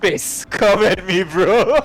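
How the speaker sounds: dumb brawler bro. Pretend. Templar brawler bro voice imagined.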